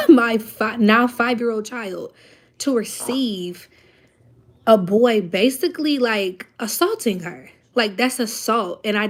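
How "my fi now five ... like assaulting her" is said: firm, louder retort to the school leader; indignant mother standing her ground; retold angry retort. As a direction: push back hard, slowing on each word. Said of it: "I said".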